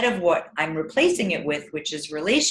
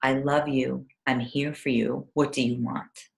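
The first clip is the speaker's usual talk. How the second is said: lower, softer, calm reassurance; level with the child gently and close; neutral, close voice; 6 semitones lower, 4 dB quieter than usual. Shown as a demonstration. Parent crouching to an upset child, calm and soft. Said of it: "get close in a neutral voice".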